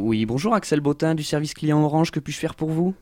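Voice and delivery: voix de téléconseiller légèrement polie; voix d'hôtesse de l'air. Shown as a demonstration. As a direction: accueil client poli, à peine appuyé. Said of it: "Tu fais ta voix d'hôtesse de l'air". (voix d'hôtesse de l'air au téléphone)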